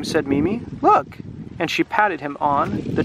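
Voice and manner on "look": high character exclamation; Mimi's voice. Acted. Child showing villagers the tame dragon, high character voice. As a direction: show them, pitched way up.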